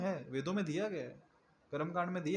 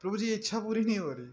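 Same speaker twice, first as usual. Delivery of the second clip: mock complaining devotee; 3 semitones higher, faster than usual. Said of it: "उनका रोना क्या है?".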